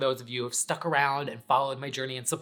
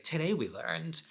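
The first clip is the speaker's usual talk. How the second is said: lightly mock lesson-wrap tone, slowed on the first line; half-playful recap of today's lesson; imitating her old sign-off. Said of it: "At the end of my weekend chat, I'd be like".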